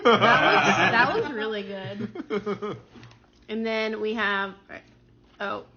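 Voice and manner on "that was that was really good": laughing. Real, not acted. Laughing about the lobster.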